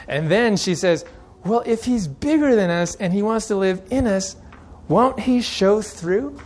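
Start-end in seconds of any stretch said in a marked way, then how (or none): 1.5-6.4 put-on little girl voice.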